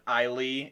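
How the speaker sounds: "Islay" ending in a "lee" sound; mispronounced Islay. Shown as a demonstration. Host shows another old mistake, "Islay" as EYE-lee. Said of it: "pronounced it Islay".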